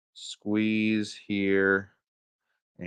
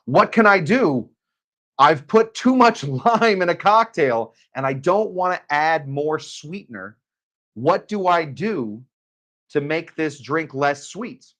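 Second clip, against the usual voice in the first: imitating a friend's Swedish accent, higher and slower; playful mock Swedish accent, slowed and pitched up; 6 semitones higher, 4 dB louder, slower than usual. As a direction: friend on a frantic late-night call, in a mock Swedish accent. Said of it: "he has this very lovely Swedish accent".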